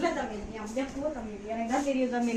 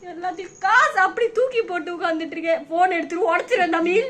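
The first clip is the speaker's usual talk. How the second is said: upset, higher-pitched tearful complaint; tearful outburst; 3 semitones higher than usual. Real, not acted. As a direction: threaten through tears, pitch raised. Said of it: "இப்ப எதுக்கு அழுவுற?". (அழுகையோடு கோபமாக)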